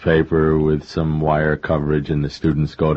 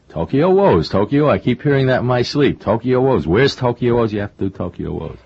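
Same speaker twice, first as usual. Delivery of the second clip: insistent publisher; 6 semitones higher than usual. Retold or imitated.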